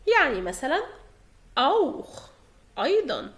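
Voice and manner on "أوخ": أوخ ending in a throaty "kh"; isolated أوخ, rasped CH at the end. Shown as a demonstration. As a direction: say أوخ as "owkh". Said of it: "بينطق خ".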